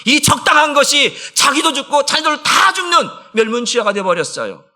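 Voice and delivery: high, shouted pulpit warning; impassioned preaching. Real, not acted. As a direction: thunder it from the pulpit. Preacher at full force. (강하게 외치는 설교)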